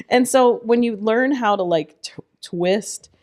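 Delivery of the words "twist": ordinary talk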